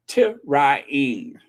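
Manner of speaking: "trying" split into three syllables, tuh-ray-ing; broken down. Shown as a demonstration. Vlogger demonstrating the broken-down trying again. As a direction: pull "trying" apart slowly. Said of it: "you gotta break it down".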